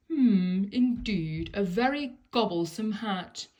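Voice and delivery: a greedy crocodile mulling its dinner; drawling crocodile. Acted. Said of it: "drawled the crocodile".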